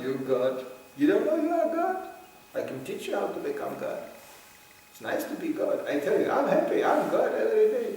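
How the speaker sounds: a hint of a fake guru, sugary and rising; cheater's pitch. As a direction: woo the mark like a guru selling bliss. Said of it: "they go".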